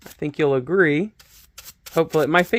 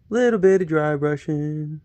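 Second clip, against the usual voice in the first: slow, lightly voiced TV painting instructor; a slow, easy hint of a TV painter; slow Bob Ross voice. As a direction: draw it out slowly like a gentle painting host. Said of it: "Am I becoming a miniature painted Bob Ross?".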